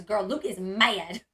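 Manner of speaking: imitating a teasing warning, MAD drawn out long; slow, playful fake bad news; joking mock alarm. Sister calling back to tease her, joking mock alarm. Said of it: "by the way she said".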